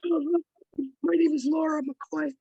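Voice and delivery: losing her voice, hoarse and strained. Real, not acted. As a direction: speak through a worn-out hoarse voice. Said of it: "I'm sorry, I'm losing my voice".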